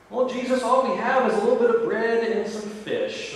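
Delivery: protesting disciples. Acted. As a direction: raise the voice like worried disciples objecting.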